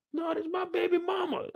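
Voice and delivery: high shouted announcement; yelled call. Retold or imitated. Warning listeners about someone yelling baby mama, shouting. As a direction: yell it across the room.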